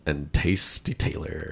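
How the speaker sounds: lightly deepened smooth radio intro; deep radio host. Pretend. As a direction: croon it like a smooth podcast host. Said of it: "imagine us starting a podcast and going".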